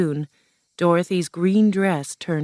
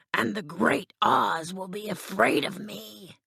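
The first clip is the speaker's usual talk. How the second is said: husky, higher lion character voice; boasting Cowardly Lion; 4 semitones higher, 4 dB quieter than usual. Acted. Lion boasts Oz will fear him, husky creature voice. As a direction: play a lion puffing himself up.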